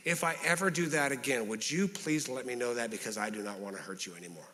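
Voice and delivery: softened, sincere apology; serious apology. Acted. Apologizing to someone they hurt, serious and sincere. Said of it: "That's, like, serious apology".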